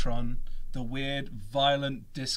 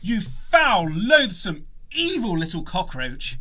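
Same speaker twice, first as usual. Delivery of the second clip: lady voice; 5 semitones higher, 7 dB louder, slower than usual. Acted. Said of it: "I'm gonna have to do a lady voice".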